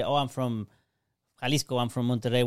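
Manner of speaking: usual speaking voice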